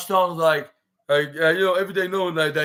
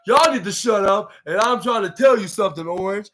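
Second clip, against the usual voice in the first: raised-voice retort to hecklers, imitated; annoyed; 4 semitones higher, 3 dB louder than usual. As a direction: snap back at the crowd, higher and louder. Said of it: "Roderick Strong got annoyed".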